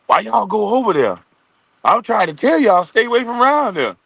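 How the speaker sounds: high, pleading mock junkie voice; imitated junkie. Junkie warning others to stay away, high mock plea. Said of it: "That goddamn junkie be like".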